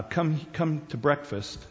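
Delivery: put-on soft, slow, easygoing call to a kid; first, unhurried call to breakfast; mild parent calling. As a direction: call the child in gently, no urgency. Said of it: "when you call your kid, you say".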